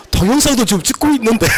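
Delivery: chuckling over the filming; laughing while talking. Real, not acted. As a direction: talk through a real laugh. Laughing about being filmed. (웃으면서 말하기)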